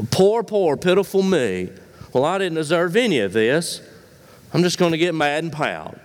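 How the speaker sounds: a mock whiny poor-me lament; lightly hammed-up pity party; self-pitying pout. Pastor mocks a pouting believer, whiny poor-me voice. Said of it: "you're just pouting".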